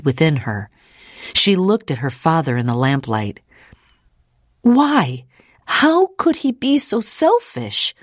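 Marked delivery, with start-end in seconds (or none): 4.6-7.9 high, indignant outburst; demanding. Acted. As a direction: demand an answer in disbelief. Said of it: "she demanded".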